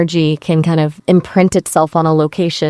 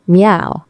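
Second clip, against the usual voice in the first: half-hearted spoken meow; mild cat meow. Acted. AI makes animal noises on request, mild meow. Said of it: "A cat?".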